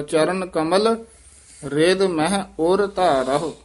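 ਉਰ and ਧਾਰਹੁ said as two separate words; ur dharahu separate. Shown as a demonstration. Teacher correcting the pupil's reading of ਉਰ ਧਾਰਹੁ. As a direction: keep ਉਰ apart from ਧਾਰਹੁ, clear break. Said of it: "ਉਰ ਧਾਰਹੁ ਵੱਖਰਾ ਹੀ ਪਾਠ ਹੈ".

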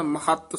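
ਮਹੱਤ with a firm doubled t; tight pronunciation. Shown as a demonstration. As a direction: press the t in ਮਹੱਤ. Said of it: "ਮਹੱਤ ਪਦ ਕਸ ਕੇ ਬੋਲਣਾ ਹੈ".

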